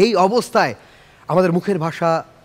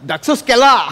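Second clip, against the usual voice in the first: laughing; 5 semitones higher, 4 dB louder than usual. Real, not acted. Laughing echo of dialect.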